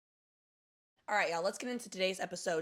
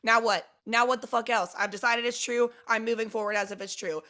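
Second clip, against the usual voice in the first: loud, defiant so-what attitude; brash, couldn't-care-less self-talk; humorous, not caring; 5 dB louder than usual. Shown as a demonstration. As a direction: shrug off the worry boldly. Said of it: "with, like, a sense of, like, humor and not giving a fuck".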